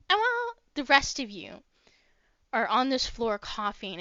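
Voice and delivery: normal talking voice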